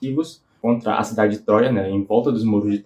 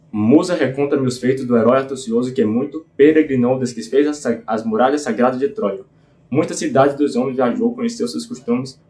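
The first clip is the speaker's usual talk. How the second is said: epic verse read aloud in a steady beat; leitura rítmica de poema épico. Acted. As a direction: recite it like an ancient epic, stressed beats marching on. (leitura cadenciada de versos épicos)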